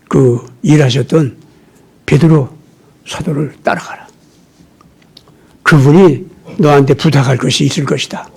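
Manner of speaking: low, measured acted counsel; mentor's instruction. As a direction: gently send a disciple off to another teacher. Barnabas voiced, instructing his disciple Mark.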